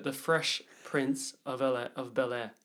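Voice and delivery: slow, stumbling words round a mouth guard. Real, not acted. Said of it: "I said that really weirdly".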